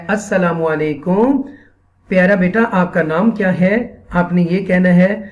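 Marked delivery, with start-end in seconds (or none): 0.1-3.9 gentle greeting. Shown as a demonstration. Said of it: "آپ نے سب سے پہلے بچے کو کیسے مخاطب کرنا ہے".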